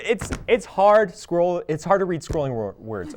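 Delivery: tripping over the words; stumbling reading. Real, not acted. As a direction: stumble through the teleprompter. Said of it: "See, I'm struggling".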